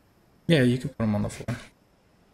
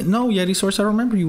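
mock forgetting; 9 semitones higher than usual. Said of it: "No, I'm just kidding".

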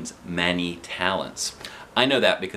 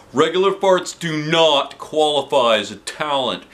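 firm; 5 semitones higher, 4 dB louder than usual. A narrator's reading.

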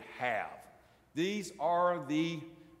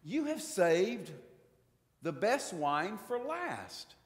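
maitre d' praising; slower than usual. Retold or imitated. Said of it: "and he goes".

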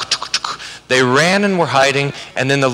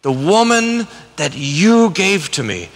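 slow, resentful blaming, higher pitched; angry Adam; 5 semitones higher than usual. Shown as a demonstration. Teacher voicing Adam's anger blaming his wife. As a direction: spit out the blame at God. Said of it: "anger in Adam's voice".

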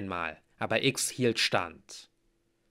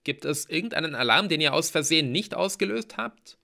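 higher, louder, rushed start; trembling question; 7 semitones higher, 5 dB louder than usual. A narrator's reading. Hero asks friends about alarms, nervously agitated. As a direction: ask in nervous exasperation. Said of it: "meine Stimme zitterte".

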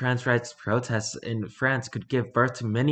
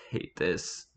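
whispered aside; 6 semitones lower, 9 dB quieter than usual. Real, not acted. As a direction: breathe it under your breath.

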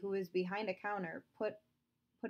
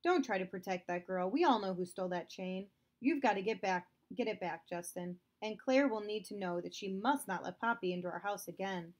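stern, raised father voice; angry father; 3 dB louder than usual. Acted. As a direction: scold him like an indignant father. Father orders Justin.

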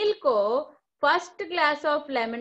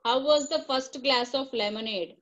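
slow dictation; much slower than usual. Shown as a demonstration. Dictating the question.

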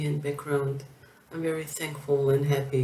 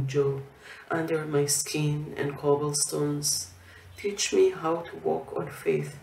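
measured verse reading, pausing after each phrase; poem recitation. Acted. Poet reading from her last book about Jerusalem, measured recitation. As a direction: recite it line by line.

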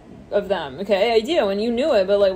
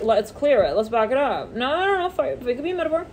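usual speaking voice

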